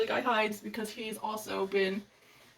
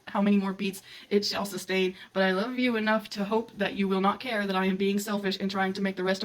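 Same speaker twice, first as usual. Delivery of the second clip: reading a love declaration; 2 semitones lower than usual. A narrator's reading.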